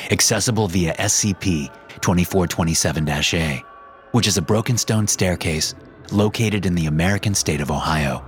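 measured, formal report reading; steady archive report voice; document read. Acted. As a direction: read it like a clinical file entry. Reads the SCP document.

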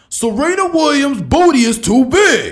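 loud, high ranting sports pundit; Stephen A. Smith. Retold or imitated. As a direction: rant it hot-take style, shouting. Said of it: "Stephen A. Smith impersonations".

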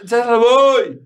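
high, insistent holler across the house; mock calling out. Husband retells calling to his wife from afar, high mock holler. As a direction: imitate shouting between rooms. Retold shouting between rooms.

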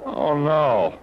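startled, rushing to fix the mess; alarmed. Acted. Nephew rushing off after uncle accuses the waiter, alarmed.

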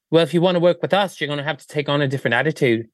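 mock Australian accent. Australian designers warn the visiting witch, mock Australian accent. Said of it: "And they're like".

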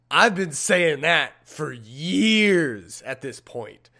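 slow drawn-out confession. Retold or imitated. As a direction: drag each word out. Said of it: "she tells us".

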